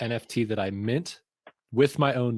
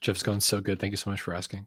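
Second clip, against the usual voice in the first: put-on cozy, close, intimate tone; 3 semitones lower, 4 dB quieter than usual. Co-host answering the host's greeting at the show's start, in an intimate voice. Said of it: "Is that your intimate voice?".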